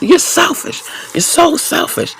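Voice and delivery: very high squeaky mocking voice; mock yelling ex. Imitating her ex yelling selfish at her, shrill mockery. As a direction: pitch it way up to mock him. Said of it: "he's still yelling at me".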